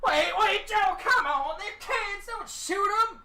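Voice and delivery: high, loud, frantic pleading; panicked high-pitched protest, hammed up; alarmed character shouting. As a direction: yell urgently to stop someone shooting. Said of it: "He's like".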